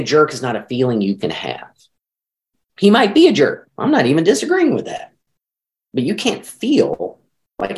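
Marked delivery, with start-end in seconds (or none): 2.8-5.1 emphatic concession. Real, not acted.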